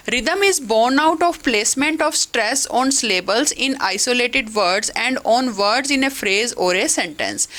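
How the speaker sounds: slow, careful textbook read-aloud; measured classroom dictation. Acted. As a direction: read the definition out slowly for the class. Reads English definition aloud.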